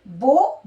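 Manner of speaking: बो said with a long "o", rhyming with go; bow as in bow tie. Shown as a demonstration. Teacher showing the bow-tie बो to students. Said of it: "दोनों की spelling देखिए same है".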